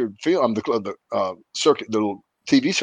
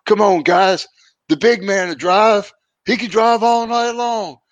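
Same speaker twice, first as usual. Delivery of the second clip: higher, slower, hammed-up Sheik voice; imitating the Sheik; 9 semitones higher, 3 dB louder, slower than usual. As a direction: play the stoned Sheik hyping the big man. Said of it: "Sheik says".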